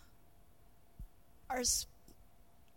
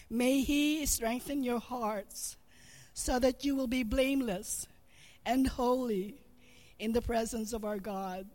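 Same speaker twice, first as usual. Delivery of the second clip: louder, earnest scripture prayer; prayer reading; 3 dB louder than usual. Acted. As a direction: pray it over the family with conviction. Reads a Bible prayer aloud.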